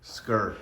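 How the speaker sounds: "Scur" said as the first syllable of scary; coined short word. Shown as a demonstration. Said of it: "For scary".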